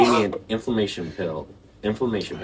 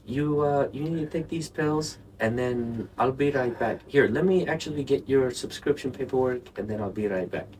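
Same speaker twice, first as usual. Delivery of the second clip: higher bro voice; 5 semitones higher than usual. Retold or imitated. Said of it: "he was just like".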